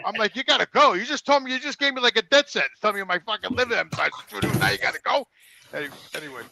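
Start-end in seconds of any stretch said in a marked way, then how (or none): 0.3-5.3 higher-pitched retold outrage; indignant disbelief. Patient protesting as the janitor leaves, indignant and raised. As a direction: re-enact being left hanging, incredulously.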